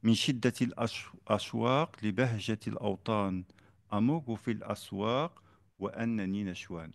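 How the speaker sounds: Arabic song verse recited in steady rhythm. Shown as a demonstration. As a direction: recite the muwashshah line with its short lilting rhythm. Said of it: "Par exemple".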